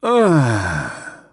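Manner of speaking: put-on drunken groan; groggy moan. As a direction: moan half awake. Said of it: "Platt moaned".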